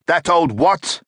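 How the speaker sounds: can't believe what he just heard; a newcomer crying out in disbelief at the doctor; incredulous cry. A narrator's reading. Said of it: "cried the tall newcomer".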